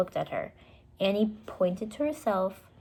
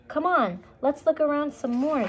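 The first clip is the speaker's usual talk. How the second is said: eager; 8 semitones higher, 5 dB louder than usual. Acted. Eager Annie.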